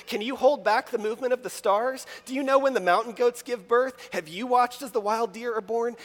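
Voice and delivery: rolling, fired-up questions from God; God on a rampage. Retold or imitated. Preacher voicing God's barrage of questions to Job. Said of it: "about to go on a rampage".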